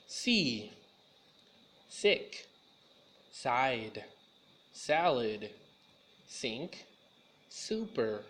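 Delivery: each of "See", "sick", "side" opened on a clear hissed "s"; slow, separate words, starting each on a sharp "s"; "salad", "sink", "super" each begun with a clean hissing "s"; crisp s sound. Shown as a demonstration. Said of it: "The S has a S sound".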